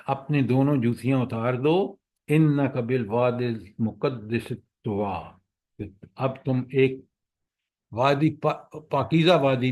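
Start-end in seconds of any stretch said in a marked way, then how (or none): 2.3-5.8 slow, measured Arabic recitation; Quranic recitation. Shown as a demonstration. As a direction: recite the verse slowly. Reciting Quran verse in lesson. (آہستہ قرآنی تلاوت)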